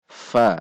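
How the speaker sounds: "fa" dengan sifat huruf fa, bukan "pa"; makhraj huruf fa. Shown as a demonstration. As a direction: ucapkan "fa" berdesis dari bibir, bukan "pa". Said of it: "perhatikan sifat dan makhrajnya huruf". (makhraj fa yang tepat)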